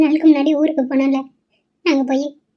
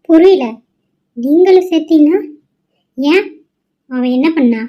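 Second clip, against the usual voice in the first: angry retort; 5 dB louder than usual. Acted. Mother snaps at daughter.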